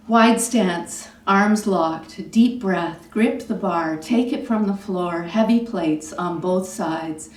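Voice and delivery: punchy poem recital in short phrases; poetry reading. Acted. Poet reading Deadlift to the audience, firm measured recital. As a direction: land each short phrase firmly, with a beat between.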